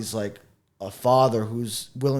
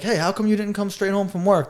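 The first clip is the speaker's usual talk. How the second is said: natural, questioning line read; natural delivery; 5 semitones higher than usual. Shown as a demonstration. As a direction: ask it like a real person would. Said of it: "instead of being like".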